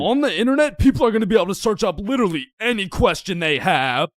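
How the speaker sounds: excited pitch. Acted. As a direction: pitch it like a world-changing invention. Inventor pitching the internet.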